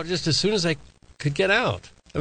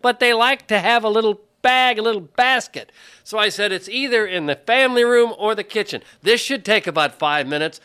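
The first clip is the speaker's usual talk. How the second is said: raised, higher-pitched complaint; worked-up yelling; 4 semitones higher than usual. Real, not acted. Father telling co-hosts nobody found the baskets, worked-up yelling.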